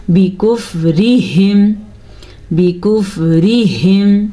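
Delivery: slow melodic tajweed recitation; Quran recitation. Shown as a demonstration. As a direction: draw the vowels out like a Quran reciter. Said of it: "teacher recites the word to teach".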